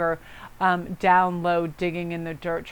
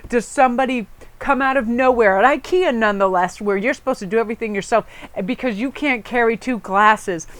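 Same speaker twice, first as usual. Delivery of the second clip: retold angry rant, louder and higher; mad rant; 4 semitones higher, 5 dB louder than usual. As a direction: replay the husband's indignant outburst. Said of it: "And Ian got so mad".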